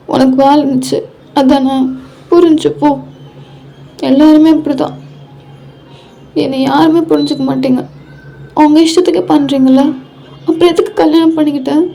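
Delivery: tearful grievance. Acted. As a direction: pour out the hurt as if near tears. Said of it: "இதுக்கு ஏன்டி அழுவுற". (அழுதுகொண்டே புலம்புவது போல)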